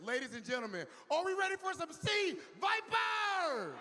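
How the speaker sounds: hype announcer. Acted. Host hypes the crowd on stage.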